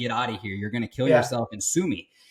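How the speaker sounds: usual speaking voice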